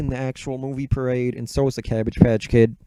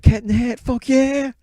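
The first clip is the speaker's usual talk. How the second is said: much higher, loud fan squeal; squealing hyped fan; 11 semitones higher, 5 dB louder than usual. Retold or imitated. Parade kids squealing over Cat in the Hat, giddy and high.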